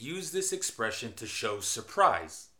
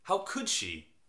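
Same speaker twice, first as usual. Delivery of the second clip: higher, scandalised disbelief; scandalised reaction to gossip; shocked disapproval; 5 semitones higher than usual. Shown as a demonstration. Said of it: "used to show anger and surprise".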